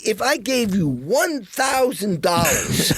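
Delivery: a high, laughing, disbelieving offer; incredulous plea. Retold or imitated. Asking the bartender for wine, mild laughing disbelief. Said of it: "I said".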